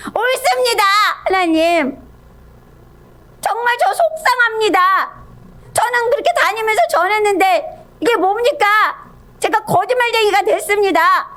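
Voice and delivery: high-pitched, aggrieved retort; acted-out wounded protest; defiant Jonah. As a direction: talk back to God, upset and insistent. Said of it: "막 하나님 앞에 막 대들면서".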